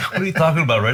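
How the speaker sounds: high, loud incredulous question to Red; retold disbelief.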